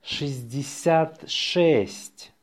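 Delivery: slow dictation, words set apart. Shown as a demonstration. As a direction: spell it out slowly by ear for learners. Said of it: "say it slowly".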